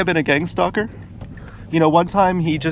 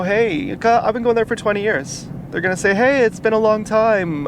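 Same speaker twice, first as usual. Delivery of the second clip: higher-pitched mock hello; imagined greeting; 6 semitones higher than usual. Restaurant staff greeting a returning regular, imagined hello. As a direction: imitate staff hailing a long-time regular, pitched up.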